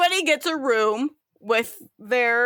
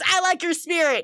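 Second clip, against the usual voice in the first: higher, hearty captain; 7 semitones higher than usual. Acted. Captain praises the purser, hearty and higher. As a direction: praise her like a jolly skipper. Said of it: "He goes".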